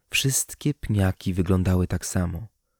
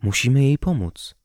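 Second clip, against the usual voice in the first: lightly voiced kind woman, higher pitch; a higher, gently warm woman's voice; 5 semitones higher than usual. A narrator's reading. Woman pleading for a starving stranger, warm voice. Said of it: "usłyszałam ciepły głos".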